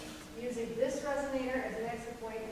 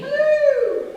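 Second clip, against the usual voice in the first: much higher, louder called hello; bright forward hello; 16 dB louder than usual. Shown as a demonstration. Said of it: "let's play this game".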